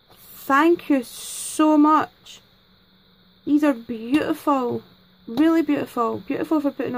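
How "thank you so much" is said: very slow, stretched thank you; thanking her friend Denise, slow and heartfelt; heartfelt drawn-out thanks. Real, not acted. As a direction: draw out every word with gratitude.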